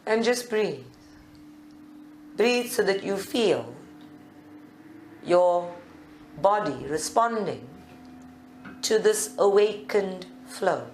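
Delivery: calm meditation guide with long pauses; guided meditation. Real, not acted. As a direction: lead them gently into stillness, leaving space between phrases. Leads a seated meditation.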